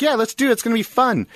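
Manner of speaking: high-pitched, upbeat quote of her agreeing; imitated enthusiastic yes; retold eagerness. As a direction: mimic someone eagerly on board, pitch jumping up.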